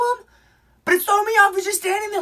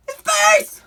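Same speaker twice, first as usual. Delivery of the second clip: high, louder exclaim; dramatic reveal; 11 semitones higher, 4 dB louder than usual. Real, not acted. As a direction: land the shock of the reveal.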